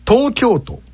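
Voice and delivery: "東京都" pushed high in the middle, dropping at the end; teacher's emphatic "東京都"; exaggerated accent demo. Shown as a demonstration. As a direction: overdo the high pitch of "東京都", then fall. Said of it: "ちょっと極端にやってますよ".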